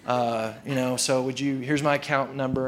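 low, subdued, unexcited customer; unenthusiastic. Acted. Unexcited customer making a clunker payment at the bank, subdued. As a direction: say it with little enthusiasm, voice dropped. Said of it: "you're not really excited about this".

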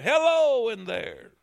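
put-on the cave echoing the boy. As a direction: play the cave's echo back. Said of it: "he heard".

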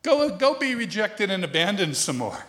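lightly voiced God, teasing and firm; voicing God. God tells the preacher to keep going. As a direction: play God refusing with a wink. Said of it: "And God said".

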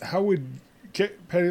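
excited protest. Real, not acted. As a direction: squeak it out in disbelief. Excited protest about cats.

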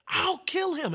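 high, strained possessed-woman threat; demonic voice. Retold or imitated. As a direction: imitate a demon speaking through a woman. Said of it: "in a deep voice".

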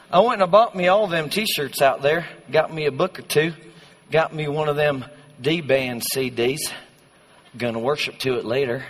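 folksy put-on Texan accent; George W. Bush. Youth group kid listing merch bought, mock Texan accent. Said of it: "now I feel like George W".

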